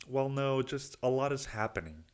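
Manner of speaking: lightly mock your own self-pity; victim mentality. Client answering his therapist, mock defensive. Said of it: "just the fucking victim mentality".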